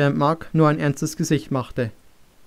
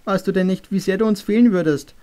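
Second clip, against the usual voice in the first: higher, pleading, a touch of tears; lightly voiced mother asking through mild sobs; tearful mother; 4 semitones higher than usual. Mother pleading with Luke how much he'd be missed, mildly tearful. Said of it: "schluchzte sie".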